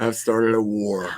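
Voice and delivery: said through laughter; slow, drawn-out words through a laugh. Real, not acted. Laughing after rival team joke.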